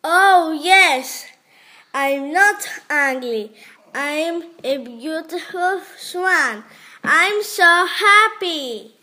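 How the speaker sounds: joyful, loud, bright; happy. Acted. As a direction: cry out in joy. Duckling happy to be swan.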